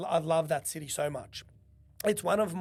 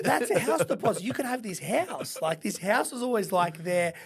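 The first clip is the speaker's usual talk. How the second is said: madre indignada; 3 semitones higher, 4 dB louder than usual. Retold or imitated. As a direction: imitate a mum scolding over wasted money. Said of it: "She's like".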